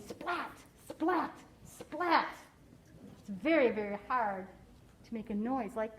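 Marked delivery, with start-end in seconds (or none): 0.1-2.4 sharp separate splats; lightning splat. A narrator's reading. Teacher imitates lightning from the book, sharp splats. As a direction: crack each splat like lightning. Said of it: "He makes lightning".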